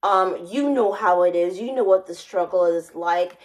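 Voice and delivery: half-hearted mock Spanish accent, barely shifted from her own voice; a hint of a put-on Spanish accent; fake Spanish accent. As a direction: lightly imitate a Spanish-accented job interviewer. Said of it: "trying to put on a fake Spanish accent".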